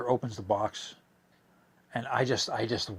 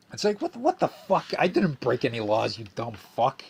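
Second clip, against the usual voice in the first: indignant; 2 semitones higher, 4 dB louder than usual. Real, not acted. Outraged at Peter.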